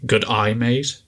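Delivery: demonstrating a weird Australian accent; lightly put-on Australian accent. Shown as a demonstration. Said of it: "in a weird Australian accent".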